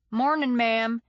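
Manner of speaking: a friendly Texas drawl, mildly voiced; Texas accent. Young street kid greets the narrator, easy Texas accent. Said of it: "he said in a Texas accent".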